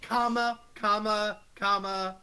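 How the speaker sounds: loud, high, repeated "comma"; exasperated calling out. Real, not acted. Co-host demanding punctuation from the writer, loud and exasperated. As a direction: call out each one as a demand.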